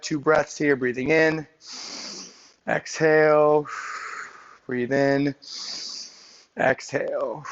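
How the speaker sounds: calm instructor leading breathing; guided stretch breathing. Acted. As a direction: talk them through each breath.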